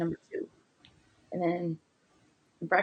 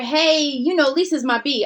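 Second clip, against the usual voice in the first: higher and louder, teasing tone; mock playful boast; 6 semitones higher, 5 dB louder than usual. Friend bragging to the group about her, mock cheery and loud. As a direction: play the friend showing off, lightly. Friend repeats the nickname retold.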